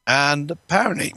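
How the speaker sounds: wheezy voice. Real, not acted. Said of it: "I'm wheezing like an old steam engine".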